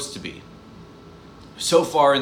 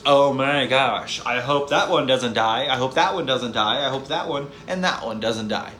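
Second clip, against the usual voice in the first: mock anxious viewer; 2 semitones lower than usual. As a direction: ham up the nervous viewer.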